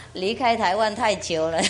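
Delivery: laughing at herself; self-mocking chuckle. Real, not acted. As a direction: say it through a real laugh. Laughs at her own Mandarin.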